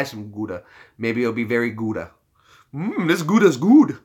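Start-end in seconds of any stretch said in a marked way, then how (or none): 2.7-4.0 drawn-out, loud mock relish; hammed-up savouring. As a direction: ham up how delicious it is. Hammed-up savouring pun on cheese.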